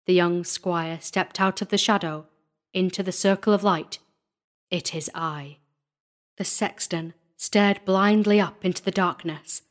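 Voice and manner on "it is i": low, soft and grave; quiet declaration. A narrator's reading. Squire reveals himself to the frightened sexton, low and quiet. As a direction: step out of the shadow with a low, quiet answer.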